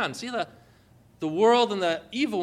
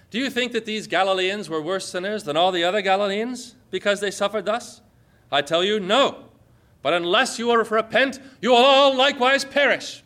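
rising to a loud, stern warning at the end; forceful scripture reading; 3 semitones higher, 5 dB louder than usual. Acted. Preacher voicing Jesus warning the crowd, building loud and stern. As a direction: read it like a prophet rebuking a crowd.

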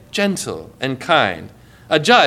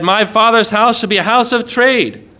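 raised, forceful rebuke; fiery zeal; 4 semitones higher than usual. Acted. Jesus to sellers in the temple, fiery. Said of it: "he was fiery".

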